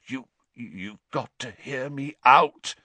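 hoarse desperate croak. Acted. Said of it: "he croaked".

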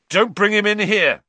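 loud, high cry of protest; alarmed shout. Acted. Boy protecting his rat from the cat, shouting.

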